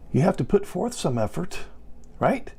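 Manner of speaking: usual speaking voice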